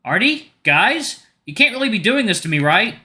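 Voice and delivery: afraid, unsure. Acted. Cameron begs his friends to stop the prank, afraid and high. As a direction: plead with them, scared and unsure. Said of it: "His voice is weak, unsure, and afraid".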